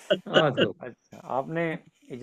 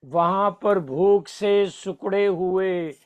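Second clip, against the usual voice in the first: stately nazm recitation; slower than usual. Acted.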